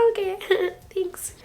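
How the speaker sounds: high, light laughing thanks; mock-sweet, laugh it off; amused brush-off. Alexa shrugging off compliments, high laughing thanks.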